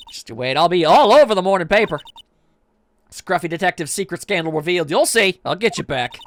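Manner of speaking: put-on pushy reporter with a light Southern accent. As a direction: insist on it with a Southern twang. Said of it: "That southern accent can only mean".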